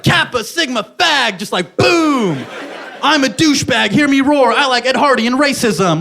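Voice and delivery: douchebag frat guy. Retold or imitated. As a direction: brag like a proud frat jock.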